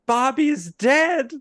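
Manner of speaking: very high, loud dramatic cry; distraught old lady. Acted. Old lady grabbing Maurice, shrill hammed-up grief. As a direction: shriek the news like a soap diva. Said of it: "She's quite distraught".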